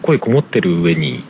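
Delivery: muffled behind a mask; talking through a cloth mask; through a face mask. Real, not acted.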